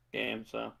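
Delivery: usual speaking voice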